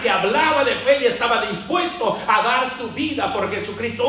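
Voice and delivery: forceful preacher hammering parallel phrases; rousing sermon delivery; fervent preaching. Real, not acted. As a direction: proclaim it with conviction, pushing each repetition. Preaches Paul's change to congregation.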